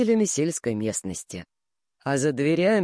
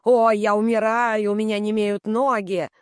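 mocking whiner; 5 semitones higher, 3 dB louder than usual. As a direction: sneer while aping his whining «я умираю». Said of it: "Она передразнивает его". («я умираю» — передразнивая нытика)

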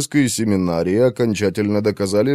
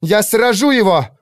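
much higher, louder battle cry; fierce shout; 11 semitones higher, 4 dB louder than usual. A narrator's reading. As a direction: vow it over the storm. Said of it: "ей приходилось кричать". (Валира яростно кричит)

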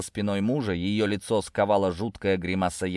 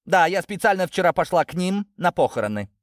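raised, higher-pitched defiant voice; shouting; 10 semitones higher, 4 dB louder than usual. A narrator's reading. Natasha admitting she went to the funeral, shouting. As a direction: fling the confession at them. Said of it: "Наташа перешла на крик".

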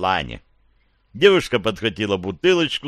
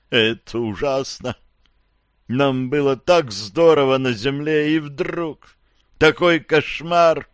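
higher, slower, shaken recollection; dazed survivor; 4 semitones higher, slower than usual. Acted. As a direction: tell it like a man waking from a nightmare. Survivor mourns.

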